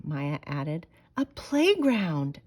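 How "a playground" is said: shouted together. A narrator's reading. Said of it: "they shouted together".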